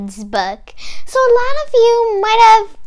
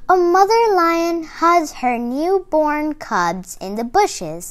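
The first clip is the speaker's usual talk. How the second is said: storybook read-aloud voice; kids' book narration; reading to children; slower than usual. A narrator's reading. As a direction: read it like a picture book to little kids.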